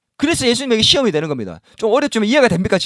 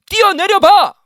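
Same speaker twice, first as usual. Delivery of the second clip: higher, louder goading dare; taunting devil; 9 semitones higher, 7 dB louder, slower than usual. Acted. The devil daring a believer to jump, loud taunt. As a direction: goad them to jump like the tempter. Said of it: "이런 유혹을 자꾸 한다는 거야".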